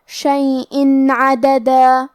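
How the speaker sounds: شیئن عددا slow, nun clearly sounded with no ghunna; clear tanween. Shown as a demonstration. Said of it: "ہم یہاں تنوین ظاہر کریں گے". (شیئن عددا میں تنوین ظاہر، بغیر غنہ)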